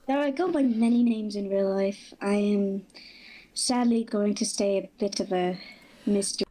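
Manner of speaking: poorly disguised voice changer voice. Acted. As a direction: speak through a bad voice changer. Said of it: "that voice changer sucks".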